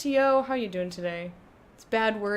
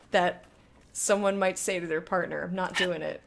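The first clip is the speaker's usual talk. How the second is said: mock seductive start; 5 dB louder than usual. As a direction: start seductive, then give up. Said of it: "go to your hot wife and be like".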